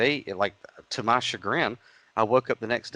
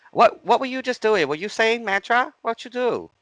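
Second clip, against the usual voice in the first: very high mock Asian accent, louder; squeaky pitched-up Asian accent imitation; 14 semitones higher, 6 dB louder than usual. Curious lady asking about his mantra, in a high Asian accent. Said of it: "I'm gonna do an Asian accent".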